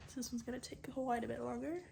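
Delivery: soft, hushed talk with whispered bits. Real, not acted. Hushed late-night talk.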